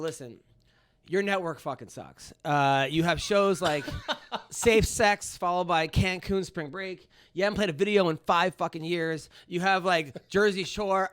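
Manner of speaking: mock indignant tirade, mildly heated; retold rant. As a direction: list their faults like you're going off on them. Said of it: "I went off on the whole thing".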